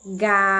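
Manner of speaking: "Galinha" as GAAA, long pause, LIIINHA; syllable by syllable. Shown as a demonstration. Teacher splits word into syllables.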